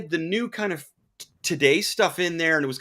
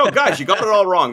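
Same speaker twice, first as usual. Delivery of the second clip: loosely attempted New York accent, louder; 3 semitones higher, 6 dB louder than usual. Jack Kirby scolding the filmmakers, mock New York accent. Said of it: "New York accent".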